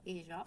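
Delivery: "ella" with a French J, "ezha"; zh variant of ella. Shown as a demonstration. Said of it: "on peut dire ella".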